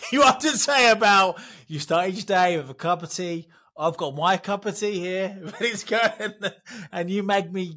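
real laughter breaking into the words; laughing. Real, not acted. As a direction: giggle your way through the tea line. Laughing about his tea habit.

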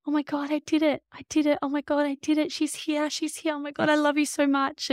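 put-on a mother meeting her baby, breathless with wonder; overwhelmed with joy. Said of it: "I just kept saying".

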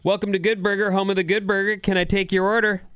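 chirpy fast-food counter voice; Good Burger cashier. Retold or imitated. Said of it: "Love that movie".

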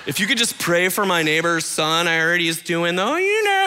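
hammed-up pious gossip; mock gossiping churchgoer. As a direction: church gossip dressed up as a prayer request, in a sly mock tone. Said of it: "You just call them prayer requests".

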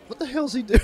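mock her baffled reaction; amused disbelief. Aisha backstage, seeing the act, in amused disbelief. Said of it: "she's like".

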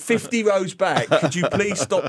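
singsong Singaporean English, light mockery; imitating Singlish politely. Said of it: "stop the performance and say".

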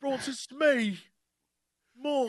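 high mock-British questioning call; terrible British accent. Host imitating the actor for co-hosts, terrible British accent. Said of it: "his terrible British".

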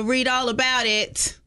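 newsboy call. Acted. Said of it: "went fifties newspaper on it".

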